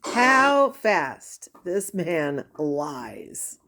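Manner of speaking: very slow, drawn-out disbelief; slow disbelieving. Real, not acted. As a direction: draw it out in disbelief.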